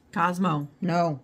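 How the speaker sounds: loud, firm reprimand; firm dog command. Real, not acted. Owner tells Cosmo no, firm scolding.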